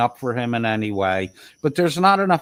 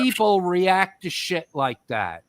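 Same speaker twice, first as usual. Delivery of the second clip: angry; 6 semitones higher than usual. Real, not acted. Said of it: "Oh, you're angry".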